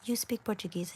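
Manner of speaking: high-pitched imitation of astonished listeners; mock surprise. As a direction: act out everyone's amazed reaction. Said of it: "everyone's like".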